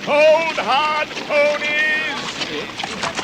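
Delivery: loud call to halt the ponies. Acted. Thorin calls out to the ponies to halt. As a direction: shout the command to stop.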